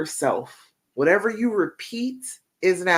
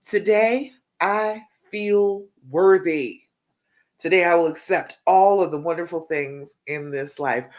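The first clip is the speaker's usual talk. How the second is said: heartfelt affirmation. Shown as a demonstration. Coach leading women to repeat an affirmation after her, heartfelt and deliberate. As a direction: say it like you mean it with all your heart. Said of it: "like you mean it with all your heart".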